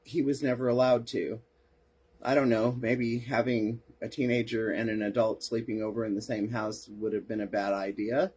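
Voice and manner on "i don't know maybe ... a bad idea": dry sarcasm, feigning innocent doubt; sarcastic. Real, not acted. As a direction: muse sarcastically, trailing into a questioning lift. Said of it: "my sarcasm just cannot help itself".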